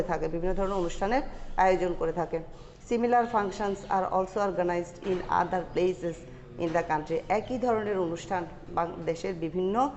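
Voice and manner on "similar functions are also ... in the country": slow, deliberate read-aloud for students; slow dictation reading. Acted. Teacher dictating the English passage slowly to students. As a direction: read each phrase slowly so the class can follow.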